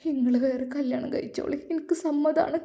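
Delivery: understated sobbing plea; a touch of tears in the voice; wife's mild sobbing consent; sobbing quietly. Acted. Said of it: "Shahina വിതുമ്പിക്കൊണ്ട് പറഞ്ഞു".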